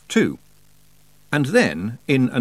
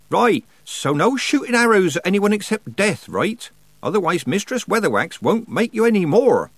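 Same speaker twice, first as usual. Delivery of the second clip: high, raised Nanny voice; brisk old witch; 8 semitones higher, 3 dB louder than usual. A narrator's reading. Nanny gives patient his medicine, brisk and loud. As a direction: instruct him like a no-nonsense nurse.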